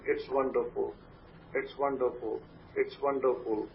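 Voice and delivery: a gentle bedtime mantra, repeated softly. Shown as a demonstration. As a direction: murmur it over and over as you fall asleep. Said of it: "you continue to repeat that statement".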